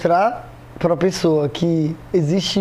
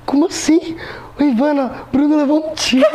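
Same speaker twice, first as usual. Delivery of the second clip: panicked mother voice; 8 semitones higher than usual. Retold or imitated. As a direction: mimic mom screaming that her son was shot. Mother panicking about shot.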